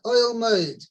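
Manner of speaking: usual speaking voice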